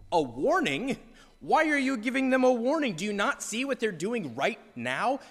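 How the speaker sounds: demanding answers from God; indignant disbelief. Retold or imitated. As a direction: believer questioning God's mercy, indignant. Outrage at God's leniency.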